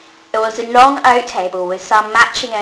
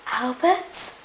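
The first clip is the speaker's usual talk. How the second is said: softer, rising whispered question; 4 semitones higher, 8 dB quieter than usual. A narrator's reading. Carrie seeing Albert again, softly whispered. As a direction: breathe his name in disbelief. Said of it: "Carrie whispered".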